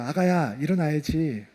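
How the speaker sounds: put-on soft, low voice close in a child's ear; hushed parental wake-up call; tender murmur. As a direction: lovingly wake a sleeping child, very gently. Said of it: "끌어안고 귀에다 대고 이렇게 얘기해요".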